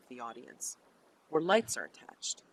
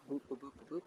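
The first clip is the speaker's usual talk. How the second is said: soft little boops; quiet run of boops; playful booping noises; 11 dB quieter, much faster than usual. Pretend. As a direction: boop along quietly to yourself. Imitated noise while drawing a card.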